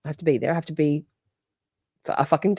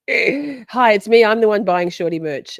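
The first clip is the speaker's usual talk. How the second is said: louder joking self-reveal; mock announcement; 3 semitones higher, 5 dB louder than usual. Host mocks herself to friend, louder. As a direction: proclaim it as a joke.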